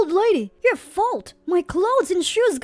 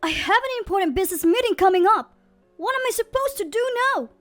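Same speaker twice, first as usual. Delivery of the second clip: fast, loud, much higher furious shout; 9 semitones higher, 5 dB louder, faster than usual. Acted. Boss shouting at the cleaner about his meeting, fast furious yell. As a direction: explode at her in a rush. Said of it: "Wilson shouted at her".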